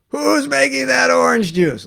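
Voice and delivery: high, slow imitation of Prabhupada asking; mock stern question. Guru questioning devotees in the kitchen, imitated high and slow.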